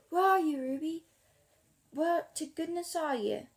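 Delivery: calling out. A narrator's reading. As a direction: call out for a missing friend. Clancy calls out toward barn door.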